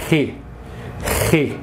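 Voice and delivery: "re" repeated as a demo; teacher names the Greek letter "re". Shown as a demonstration. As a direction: say "re" twice, clearly. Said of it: "ele se chama".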